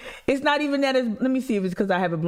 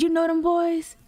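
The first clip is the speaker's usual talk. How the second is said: much higher voice, thick North Carolina accent, imitating mom; mom's North Carolina accent; 11 semitones higher than usual. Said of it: "North Carolina accent, real thick".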